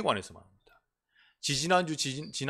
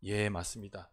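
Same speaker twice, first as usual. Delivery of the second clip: quiet agreement; 7 semitones lower, 8 dB quieter than usual. Shown as a demonstration. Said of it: "그냥 가만히".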